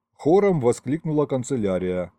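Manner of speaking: usual speaking voice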